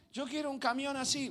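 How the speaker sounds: a lightly voiced small boy asking; pleading child. Preacher recalls asking his parents for a truck. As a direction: ask like an eager little kid.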